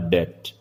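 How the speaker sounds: डेट said with a silent b; no b sound in डेट; correct pronunciation. Shown as a demonstration. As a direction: say डेट straight from vowel to t. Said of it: "इसका सही उच्चारण होगा".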